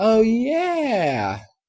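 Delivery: drawled speech. Reading a story aloud, a filly remembers something: drawling. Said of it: "Applebloom drawled".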